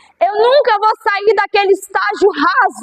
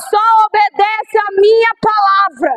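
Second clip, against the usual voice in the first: shouted command. Acted. God's voice quoted in sermon.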